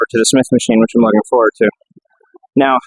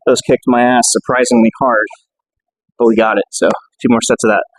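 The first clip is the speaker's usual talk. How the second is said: winded after a heavy set; out of breath. Real, not acted. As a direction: talk while still catching your breath. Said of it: "Just trying to catch my breath there".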